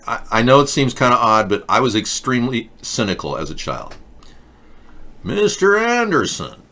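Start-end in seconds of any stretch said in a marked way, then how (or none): 5.2-6.6 Agent Smith impression. Agent Smith movie quote.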